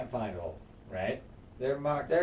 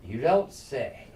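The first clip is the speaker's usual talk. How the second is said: dry sarcasm; slower than usual. Retold or imitated. Sarcastic reply to the messenger.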